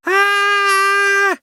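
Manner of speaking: very high shriek of terror; terrified scream. A narrator's reading. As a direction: scream as the donut rolls at you. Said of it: "закричала от ужаса".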